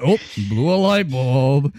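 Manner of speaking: imitating him. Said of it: "He's like".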